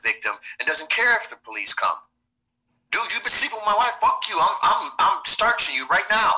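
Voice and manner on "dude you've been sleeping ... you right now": much higher, heated confrontation; enraged husband. Acted. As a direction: confront the man sleeping with your wife. Acted jealous husband confronting rival.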